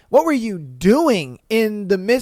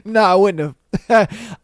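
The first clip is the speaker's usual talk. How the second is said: said through real laughter, a touch slower; laughing admission. Real, not acted. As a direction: laugh as you admit it.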